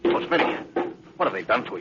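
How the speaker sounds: grieving. Acted. Captain finding the dying doctor, quiet grief. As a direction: ache over a wounded friend.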